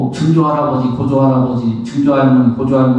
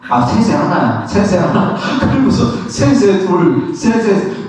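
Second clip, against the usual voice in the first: self-deceiving meditator; 5 semitones higher than usual. Retold or imitated. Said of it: "자기가 자기를 속여요".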